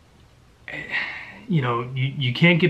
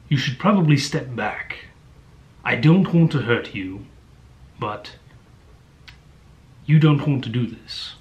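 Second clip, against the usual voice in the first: imitated British main character, halting warning; put-on British accent with long pauses; British hero. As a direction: warn them in a mock British accent. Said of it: "in the book is the main character".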